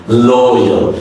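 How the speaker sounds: "Loyal" with a soft J glide in the middle; soft middle sound. Shown as a demonstration. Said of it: "Soft J sound come in the middle".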